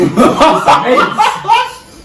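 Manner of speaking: high laughing squeal through the words. Real, not acted. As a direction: laugh it out, voice jumping up. Laughing at the spicy burn.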